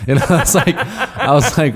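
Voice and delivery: laughing through the words; chuckling as he tells it. Real, not acted. Laughing while telling story.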